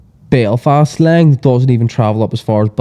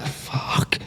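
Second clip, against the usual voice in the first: long voiceless "Fuck" with an exploding K; loaded up and fired; 14 dB quieter than usual. Acted. Belfast ma throwing the CK at her child, "Fuck" loaded up and fired. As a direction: load up "Fuck" like a gun, fire off the CK. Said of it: "loads it up like a gun".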